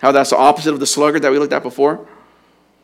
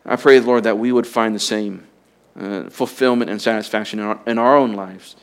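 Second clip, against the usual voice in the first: closing prayer; 2 semitones lower than usual. Acted. Pastor praying over the congregation, reverent and earnest.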